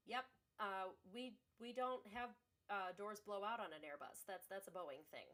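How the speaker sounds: sweetly sarcastic customer-service reply. Retold or imitated. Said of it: "but also very sarcastically said".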